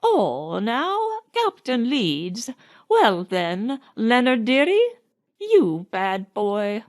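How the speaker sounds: a touch of a wail, slow and scolding; understated reproachful old nanny; mild reproachful wail. Acted. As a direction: chide him like a hurt old nanny. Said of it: "wailed the old woman reproachfully".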